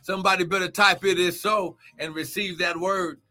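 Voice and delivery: rhythmic, rising preacher's cry over music; a pastor's charged morning prayer; fervent preaching prayer. Acted. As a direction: pray over them with full fire.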